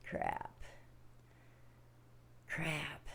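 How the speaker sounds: soft, deflated cursing. Retold or imitated. Worker just scolded by the boss, quiet dejected cursing. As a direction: curse quietly under your breath.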